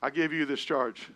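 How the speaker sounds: ordinary talk, nothing marked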